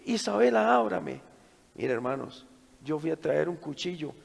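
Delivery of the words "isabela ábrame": louder, higher shouts through a door; urgent calling. Retold or imitated. Father calls through locked door to frightened daughter, loud and urgent.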